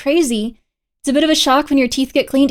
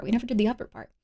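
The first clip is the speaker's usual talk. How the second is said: soft repeat; 3 semitones lower, 11 dB quieter, much faster than usual. Real, not acted.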